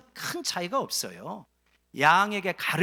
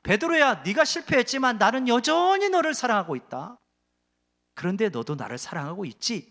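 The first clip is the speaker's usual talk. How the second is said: Jesus to Peter; 4 semitones higher, 4 dB louder than usual. Acted. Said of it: "세 번이나 묻는 것은".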